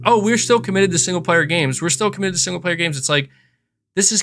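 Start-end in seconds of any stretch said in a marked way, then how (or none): 0.1-1.8 higher, mocking PR voice; mock corporate line. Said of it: "they had to keep saying". 1.8-3.0 rattled off fast and softer; fast dismissive repeat. Retold or imitated. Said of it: "they had to keep saying".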